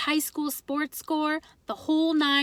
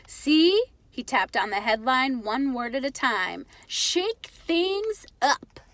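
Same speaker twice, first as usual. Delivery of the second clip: proud Pop. Acted. Father showing his son the headline, eager and proud. Pop excited about newspaper.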